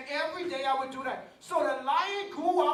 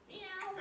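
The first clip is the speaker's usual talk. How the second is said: meow; 5 semitones higher, 14 dB quieter than usual. Retold or imitated. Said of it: "And finally he said".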